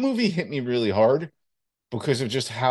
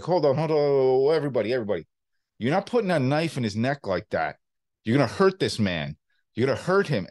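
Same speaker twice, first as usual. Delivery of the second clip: lightly done De Niro impression. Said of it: "De Niro was like".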